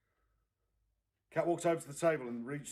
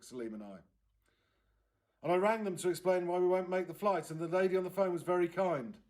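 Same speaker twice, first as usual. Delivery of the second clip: upset aunt, higher and louder, rushing; distraught aunt; 5 semitones higher, 6 dB louder than usual. Acted. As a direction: pour it out, on the edge of tears. Aunt Gloria upset, near tears.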